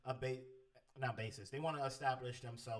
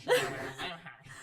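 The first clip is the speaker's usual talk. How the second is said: high voice demo; 3 semitones higher, 10 dB louder, faster than usual. Shown as a demonstration. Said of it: "Your voice wouldn't have to be like this".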